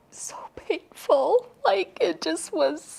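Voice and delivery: breathy, slow pained laugh; strained laughing whisper. Real, not acted. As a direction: laugh through the hurt. Painful memory, laughing through it.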